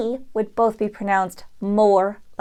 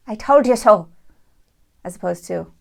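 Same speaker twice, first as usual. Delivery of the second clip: Irish accent demo. Shown as a demonstration. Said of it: "told can sound like told".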